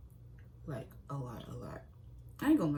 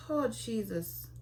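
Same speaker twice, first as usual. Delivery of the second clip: mock exasperation; 6 semitones higher, much slower than usual.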